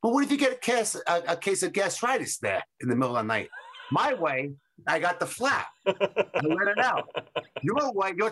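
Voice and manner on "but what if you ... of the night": high, fussy mock voice of the friend; mock worried friend. Retelling a friend's worry in a high mock voice. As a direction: pitch it up high like a fretting buddy. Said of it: "He goes".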